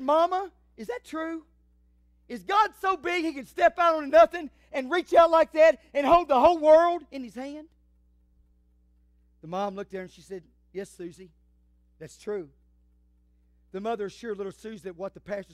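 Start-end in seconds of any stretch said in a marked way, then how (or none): 0.0-7.7 put-on high, loud child's question; pitched-up, excited childlike disbelief; wondering little girl. Little girl questions her mother. 10.7-12.5 a hint of a patient mom confirming it; lightly voiced mother. Mother answers child in story.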